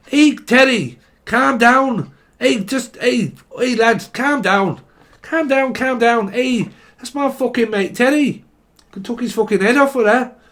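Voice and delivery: high, loud Scouse shouting; shouting Scouser. Pretend. Scouser breaking up a fight over his mate Teddy, loud Scouse shouting. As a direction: yell at the lads in Scouse. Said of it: "This is a Scouser".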